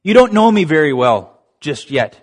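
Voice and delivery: forceful, emphatic preaching voice, lightly acted; mildly dramatized divine declaration; God. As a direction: declare it with weight, stretching key words. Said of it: "And God says".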